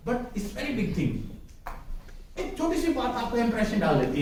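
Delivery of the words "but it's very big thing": very slow, weighty emphasis; slow and earnest. Real, not acted. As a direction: drive the point home slowly. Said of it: "हंसने की बात नहीं है". (धीरे और गंभीरता से ज़ोर देकर)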